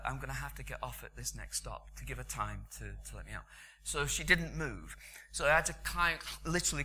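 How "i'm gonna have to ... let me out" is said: polite quiet. Retold or imitated. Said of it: "I say to her".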